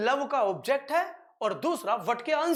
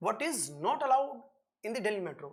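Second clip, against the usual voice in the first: slow dictation; 3 semitones lower, much slower than usual. Shown as a demonstration. Teacher dictating question.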